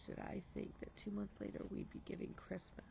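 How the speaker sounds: hushed, breathless disbelief; a near-whispered moment of wonder; whispered awe. Real, not acted. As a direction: let it fall into a whisper. Moved, trailing off.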